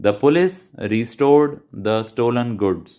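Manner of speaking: very slow, each word spaced out for students to copy; slow model sentence. Shown as a demonstration. Teacher modelling a sentence for students to repeat, very slow. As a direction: dictate it word by word, very slowly. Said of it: "साथ साथ बोलिए".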